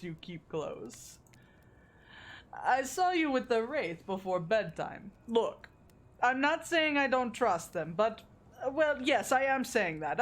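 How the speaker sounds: lightly hammed Russian accent, coy and defensive; bad Russian accent. Huntress caught going through pockets, excusing herself in a bad Russian accent. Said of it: "I didn't say I could do a good Russian accent".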